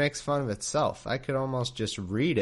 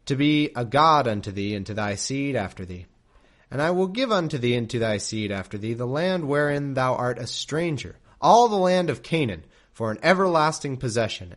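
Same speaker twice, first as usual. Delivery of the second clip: louder, formal King James reading; scripture reading; 4 dB louder than usual. A narrator's reading. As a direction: read it like solemn scripture. Reads scripture aloud.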